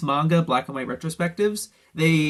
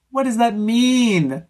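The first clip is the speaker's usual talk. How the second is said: higher, louder, slow baffled What does that mean; incredulous repeat; 7 semitones higher, 5 dB louder, slower than usual. Real, not acted. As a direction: stretch it in disbelief.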